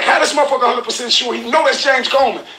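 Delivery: high, disbelieving question; can't believe anyone could be that sure; incredulous. Retold or imitated. Host recalling his disbelief at the video, high pitched. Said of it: "I was like".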